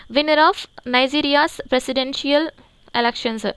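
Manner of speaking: each English word read out very slowly and evenly; slow dictation reading. Shown as a demonstration. Teacher reads the headline to the class, very slow dictation pace. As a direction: read it slowly so students can write it down.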